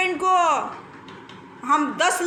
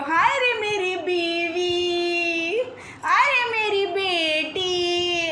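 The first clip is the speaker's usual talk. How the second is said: mock wail; slower than usual. Mock wailing again.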